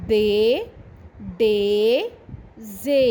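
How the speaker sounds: each syllable said alone, clear and spaced; repeat-after-me drill. Shown as a demonstration. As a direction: model each sound for the class to repeat. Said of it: "ایک دفعہ دہرا لیجیے".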